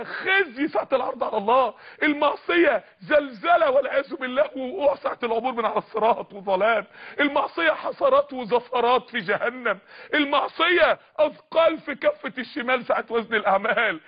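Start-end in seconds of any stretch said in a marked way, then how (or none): 2.0-5.5 preaching shout. Real, not acted. Preaching at full force. 10.1-14.0 preaching shout. Real, not acted. Preaching at full force.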